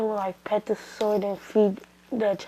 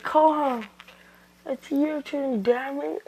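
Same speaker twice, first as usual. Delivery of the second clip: acted challenge; 5 semitones higher, slower than usual. Naruto's acted challenge to foe.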